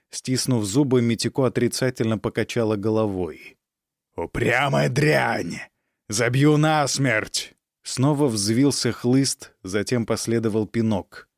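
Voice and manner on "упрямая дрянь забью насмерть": slow menacing threat. Acted. Count threatens daughter.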